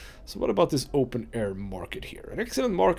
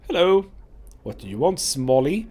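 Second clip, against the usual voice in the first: big brute voice; 3 semitones higher, 4 dB louder than usual. Acted. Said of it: "big guys always talk like that".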